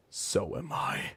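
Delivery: slow, whispered answer; hushed reply. Acted. Thord quietly answering Argmith, slow and hushed. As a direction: say it low and heavy.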